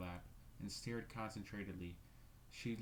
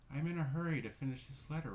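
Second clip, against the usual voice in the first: curt, louder and higher; shortly; 6 semitones higher, 6 dB louder, faster than usual. Acted. Caroline dismissing her sister, curt and loud. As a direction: brush her off curtly. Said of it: "replied Caroline shortly".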